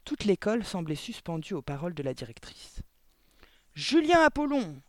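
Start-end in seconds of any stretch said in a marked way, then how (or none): 3.7-4.8 loud, high barked name; sudden shouted summons; abrupt bark. A narrator's reading. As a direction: bark out the name like a tyrant headmistress. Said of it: "aboya brusquement Le Gourdin".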